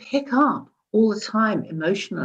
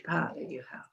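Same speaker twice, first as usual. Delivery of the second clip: whisper; 2 semitones lower, 13 dB quieter, faster than usual. Real, not acted. Stressing power, drops to whisper.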